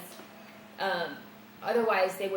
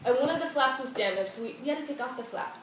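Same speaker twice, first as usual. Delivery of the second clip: lightly voiced European lady, higher; a hint of a Dutch airline lady, higher; mock European airline lady; 4 semitones higher, 4 dB louder than usual. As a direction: play the brisk airline rep. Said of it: "European to the core".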